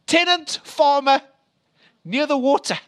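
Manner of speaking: Tenant farmer near the water, called out high and loud with tenant hit hard; loud reveal. Real, not acted. Preacher's climactic reveal.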